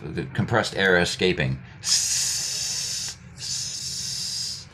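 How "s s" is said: long unvoiced hiss; steady air-pipe hiss. Shown as a demonstration. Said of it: "make the S sound like a pipe".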